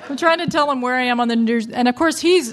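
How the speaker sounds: fast, laughing as she talks; laughing through words. Real, not acted. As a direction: rush it out, giggling. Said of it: "laughing while telling".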